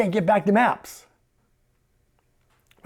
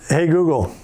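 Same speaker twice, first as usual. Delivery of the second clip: voice command; 5 dB louder than usual. Shown as a demonstration. Commanding the voice assistant.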